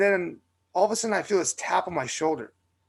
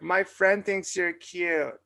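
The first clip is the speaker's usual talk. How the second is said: slow, lightly voiced drunk girl; 2 semitones higher, much slower than usual. Imitating the drunk girl at the bar, slow and light. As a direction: drag it out like a tipsy girl at a bar. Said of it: "That was actually pretty good".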